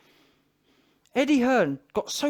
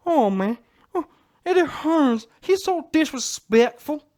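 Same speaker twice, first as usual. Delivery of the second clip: high, loud, slow whiny mock-crying; mocking Wilder's whine; 6 semitones higher, 6 dB louder than usual. Mocking Wilder's moaning about Eddie Hearn, high crying whine. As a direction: ham up a sulking fighter's wail. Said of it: "I remember Wilder saying it".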